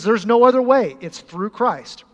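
emphatic proclamation. Acted. Preacher's emphatic climax.

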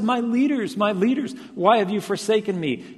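preacher imitating an anguished call; imagined outcry. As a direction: cry it out as an accusing question. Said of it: "cried out".

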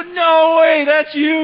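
high, loud shout of happy surprise; delighted reunion shout. Retold or imitated. Old classmates greet at the reunion, shouting with joy. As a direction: yell it like spotting an old friend. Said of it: "You go".

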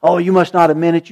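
a hint of a sneering devil; Satan's mock taunt. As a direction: sneer it like the tempter. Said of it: "when Satan tells you".

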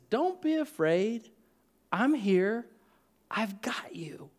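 a soft reassurance that sinks into a whisper; gentle comfort. Acted. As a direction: hold them close with your voice. God comforting the frightened.

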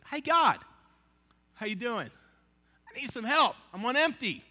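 lightly acted, chummy plea for help; casual call to God. Preacher acting his own honest prayer to God, casual call.

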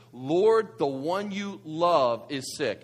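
"love" drawn out slowly; stress on love. Acted. Sisters' message relayed to Jesus, stress on "love". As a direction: lean on "love", stretching it out. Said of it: "I emphasize the word love".

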